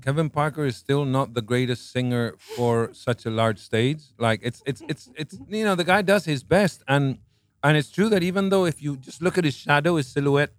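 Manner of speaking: talking while eating cherries; mouth full. Real, not acted. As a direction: speak around a mouthful. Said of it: "Sorry, I'm eating, um, cherries".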